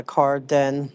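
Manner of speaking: "Carden" slowly, syllable by syllable; sounding out Carden. Shown as a demonstration. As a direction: work out "Carden" as car, den. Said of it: "I think it's like Car".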